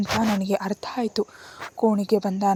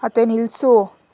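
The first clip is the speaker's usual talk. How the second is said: sharp, louder stop-it order; angry; 7 dB louder, slower than usual. Acted. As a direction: cut the aunt off in anger. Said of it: "ಸಿಟ್ಟಿನಿಂದ". (ಸಿಟ್ಟಿನ ಗದರಿಕೆ)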